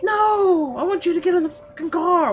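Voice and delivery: furious shout. Acted. Becca screaming at Isabel to get in the car. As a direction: explode at her. Yelling at friend again.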